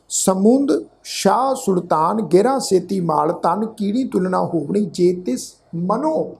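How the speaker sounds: measured, drawn-out verse reading; slow gurbani recitation. Shown as a demonstration. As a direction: recite the pauri slowly, word by word. (ਹੌਲੀ ਹੌਲੀ ਪਾਠ ਉਚਾਰਨ)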